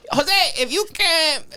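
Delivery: high-pitched broken-English accent, imitating dad; dad hamming up a foreign accent; dad's mock accent. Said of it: "left words out and did the accent".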